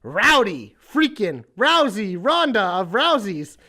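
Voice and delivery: ring announcer. Pretend. Announcer-style wrestler introduction.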